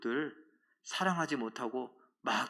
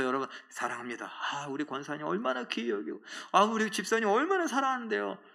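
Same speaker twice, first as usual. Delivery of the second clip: gushing affection; 5 semitones higher than usual. Acted. Acts a hypocrite professing love to parents.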